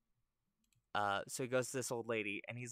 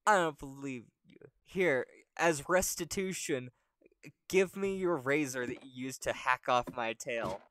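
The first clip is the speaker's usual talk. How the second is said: loud, indignant demand, pitch raised at first; indignant monkey; 3 semitones higher, 6 dB louder than usual. Acted. Monkey demanding the razor as restitution, indignant. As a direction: reject the apology and demand payment. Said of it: "he's like".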